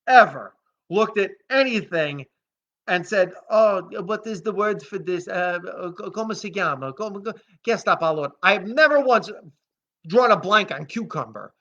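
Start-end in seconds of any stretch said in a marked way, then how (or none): 3.5-8.3 mock Italian caricature. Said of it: "become a caricature of the culture".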